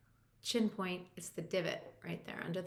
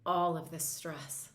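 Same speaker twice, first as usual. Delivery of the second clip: slow demo phrase; slower than usual. Shown as a demonstration. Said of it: "And just say".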